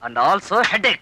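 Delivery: dropped, drawn-out comic letdown; deflating punchline. Acted. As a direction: let it sink slowly after the praise. Punchline undercuts the praise.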